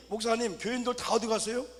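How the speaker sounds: mock startled shout. Church member shouting to the pastor where everyone went, mock alarm. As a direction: call out like a startled congregant. Deacon voiced asking pastor.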